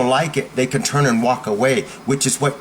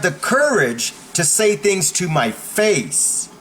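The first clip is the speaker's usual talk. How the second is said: steady, higher, firm call-out of a gossip; firm confrontation; 4 semitones higher than usual. Shown as a demonstration. Confronting the gossip in a crowded room, firm and direct. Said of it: "In a room with a lot of people, you say".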